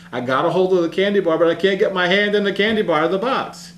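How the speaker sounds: put-on girl telling the rescuers why her hand is stuck, in an excited child voice; imitating a little girl. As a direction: play the stuck kid blurting out her excuse. Girl stuck in mailbox explains.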